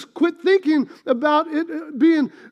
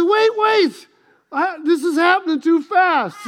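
panicked plea; 3 semitones higher than usual. Retold or imitated. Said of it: "I said".

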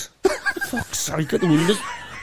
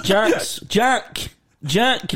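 a hint of a sing-song mocking voice; mock Uncle Alec calling Jack; imitating the accent; 5 semitones higher, much slower than usual. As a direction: lightly mimic the way he says the name. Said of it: "that sort of accent".

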